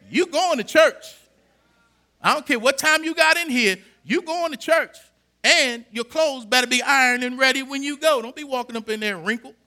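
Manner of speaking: lightly voiced stern father, loud; a hint of a strict dad laying down the law; father's orders. Pastor voicing his father ordering him to church, mildly stern.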